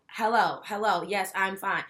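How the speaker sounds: flat robotic monotone. Retold or imitated. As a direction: say it like a robot, with no feeling.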